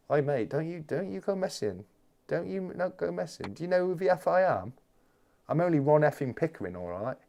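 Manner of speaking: mock menace, puffing himself up; Ron Pickering. Streamer threatening chat as hammed-up Ron Pickering.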